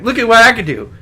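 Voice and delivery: put-on high whiny childish voice; squeaky kid showing off; Stewart from Mad TV. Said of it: "who was the guy on Mad T V that would be like".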